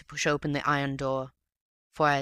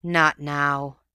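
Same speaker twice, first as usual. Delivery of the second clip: grateful sigh; 5 dB louder than usual. A narrator's reading. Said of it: "came with a grateful sort of sigh".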